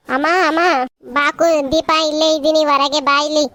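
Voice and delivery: calling loudly from outside the house. Acted. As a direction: raise the voice to reach someone outside. (ಹೊರಗಿನಿಂದ ಜೋರಾಗಿ ಕೂಗಿ ಕರೆಯುವುದು)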